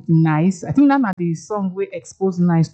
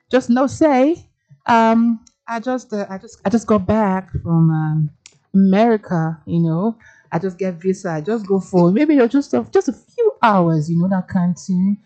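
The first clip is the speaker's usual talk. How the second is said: put-on American accent. Host joking she just flew back from America, mock American accent. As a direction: play at sounding freshly back from America. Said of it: "in case you hear say my accent don't change".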